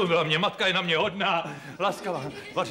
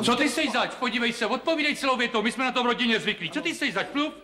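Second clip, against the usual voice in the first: mock stern questioning; 4 semitones higher, faster than usual. Star interrogating visitor.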